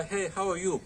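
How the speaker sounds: high, light put-on British accent greeting; a playful imitation of a British accent; a touch of a mock British accent. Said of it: "so the British accent".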